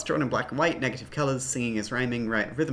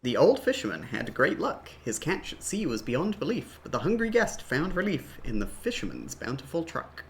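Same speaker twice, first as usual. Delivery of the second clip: rhyme recital; 4 dB quieter than usual. Acted. Reads game rhyme aloud.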